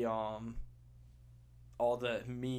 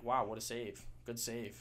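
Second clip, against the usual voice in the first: sweetly passive aggressive. Retold or imitated. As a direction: fake praise, sugar-coated. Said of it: "super passive aggressive".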